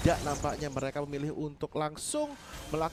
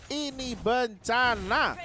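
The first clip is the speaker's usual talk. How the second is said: Oji impression; 7 semitones higher, 5 dB louder, much slower than usual. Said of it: "kalau kata Oji".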